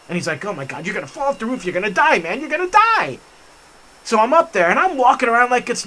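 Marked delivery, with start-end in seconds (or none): 0.4-3.2 frantic retold warning, rushed then rising; nervous. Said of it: "He was so nervous".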